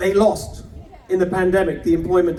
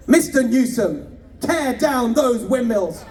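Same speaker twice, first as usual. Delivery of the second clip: slow, measured presidential delivery, lightly voiced; a mild Reagan-style oration, drawn out; Reagan impression; 3 semitones higher, slower than usual. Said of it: "channeling a little bit of President Reagan".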